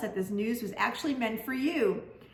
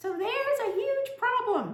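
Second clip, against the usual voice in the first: warped, tinny, distorted, very high-pitched voice; 14 semitones higher than usual. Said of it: "The voice sounds distorted".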